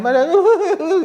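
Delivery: high, amused laugh; high burst of laughter. Real, not acted. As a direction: laugh at the weepy sisters. Laughs about weepy sisters. (carcajada aguda y divertida)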